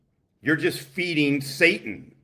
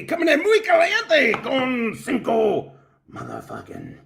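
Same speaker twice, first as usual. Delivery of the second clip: excited hype; 8 semitones higher than usual. Real, not acted. Hyping a donation.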